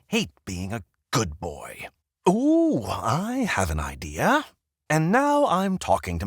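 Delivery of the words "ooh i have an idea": high excited ooh; sudden idea. Acted. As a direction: squeal it as the idea hits.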